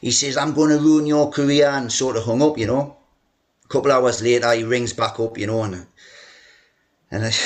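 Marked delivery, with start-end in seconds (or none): 0.4-1.7 mild mock yell; retold angry threat. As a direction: threaten like an angry chairman down the phone. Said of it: "he started shouting down the phone".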